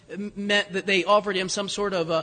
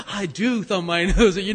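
laughing retort; 3 dB louder than usual. Retold or imitated. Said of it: "a line in Romeo and Juliet".

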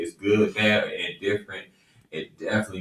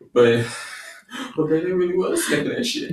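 high laughing imitation of wife; mocking wife; 8 semitones higher than usual. Husband teasing wife with her own warning, high laughing. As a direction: mimic her while laughing. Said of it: "I was laughing".

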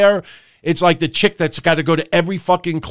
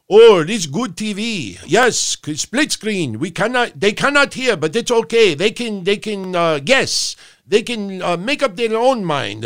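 mock producer voice; 3 semitones higher than usual. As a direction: parody the clueless producer pleased with himself. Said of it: "And why am I talking like this?".

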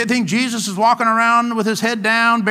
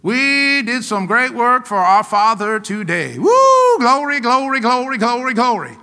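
joyful Jesus; slower than usual. Retold or imitated. Jesus praising after a day's work, slow and joyful. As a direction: savour the day's work, then burst into glory. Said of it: "I have no doubt Jesus was like".

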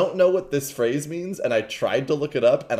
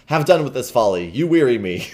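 impatient; 5 dB louder than usual. Acted. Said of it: "The king said impatiently".

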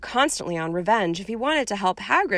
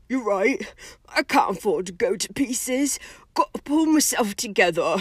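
lightly voiced tearful gamekeeper; a touch of a rough, upset countryman; gruff giant pulling himself together; 2 semitones higher than usual. Hagrid steadying himself after crying, lightly voiced.

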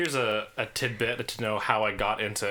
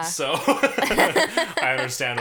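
chuckling while speaking; laughing; 7 semitones higher, 7 dB louder, much slower than usual. Real, not acted. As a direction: laugh through the words. Laughing through words.

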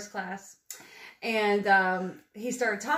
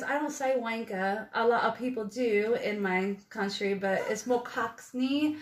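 put-on British accent, slowing at the end to explain; imitated British accent. Seatmate explains slang in his country, imitated British accent. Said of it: "a guy from the U K".

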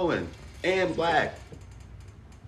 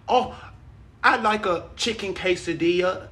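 put-on English accent; 5 semitones higher than usual. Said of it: "my normal English accent".

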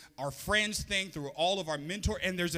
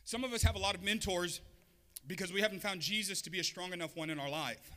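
toned-down, slightly softer restatement; calmed down; 6 dB quieter than usual. Real, not acted. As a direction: say it nicer, easing off the force. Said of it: "Let me calm down".

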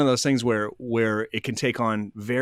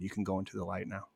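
quiet, gentle send-off; soft guiding; 2 semitones lower, 10 dB quieter than usual. Retold or imitated. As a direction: softly release the spirit. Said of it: "And I said".

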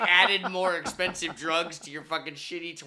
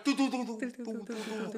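pipe sound imitation; 8 semitones higher than usual. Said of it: "it was like".

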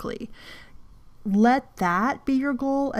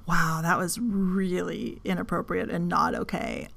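calm realization; 6 dB quieter than usual. Retold or imitated. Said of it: "calm down and go".

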